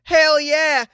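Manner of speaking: high, loud triumphant whoop; Gerald. Acted. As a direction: shout it up high as the ad's hero. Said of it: "Is it worth it, Gerald?".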